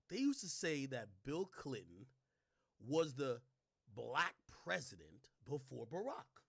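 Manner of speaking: slow, every word laid out; slow emphatic telling. Shown as a demonstration. Explaining the Bill Clinton joke to viewers, slow and deliberate. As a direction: spell it out slowly for the viewers. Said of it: "They used to say Bill Clinton".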